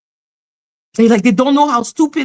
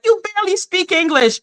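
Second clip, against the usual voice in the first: mocking critics; 5 semitones higher, faster than usual. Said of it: "And they're like".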